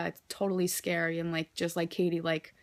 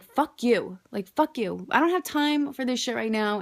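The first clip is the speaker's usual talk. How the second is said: telling panic off; 4 semitones higher than usual. Retold or imitated. Talking back to a panic attack, defiant and annoyed. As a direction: snap back at the panic like a nuisance. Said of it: "I'm like".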